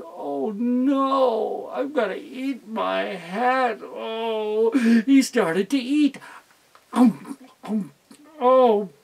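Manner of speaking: lightly voiced, rueful and slow; glum Brother Fox. Brother Fox forced to eat his hat, glum. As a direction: grumble as you chew the awful hat.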